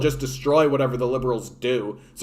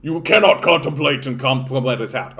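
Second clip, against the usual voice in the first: mock scolding censor; 4 dB louder than usual. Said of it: "It's like".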